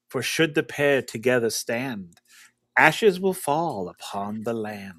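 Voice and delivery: gusting windy whisper. Acted. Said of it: "you'll hear on the wind that voice comes back in".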